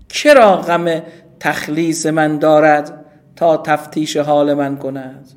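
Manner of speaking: put-on slow, weighty reading of old Persian prose; classical recitation. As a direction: declaim the Saadi line slowly. Recites Saadi's classical text.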